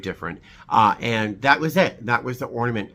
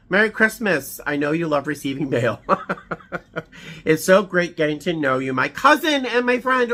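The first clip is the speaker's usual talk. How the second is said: delighted reading; 5 semitones higher than usual. Real, not acted. Reading cousin's card aloud.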